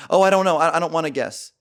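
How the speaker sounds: high, loud-starting whine of a date; imitated reluctant date. Voicing reluctant date in retold game.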